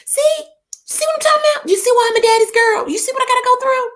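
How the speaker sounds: very high, fast exclamations; indignant squeal. Real, not acted. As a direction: shriek in mock outrage. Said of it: "reacts to mama's comment".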